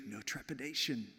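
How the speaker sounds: hushed and tender, "no trepidation" breathed out; soft whisper. Shown as a demonstration. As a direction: whisper "no trepidation" close to the mic. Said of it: "he'd whisper this to you".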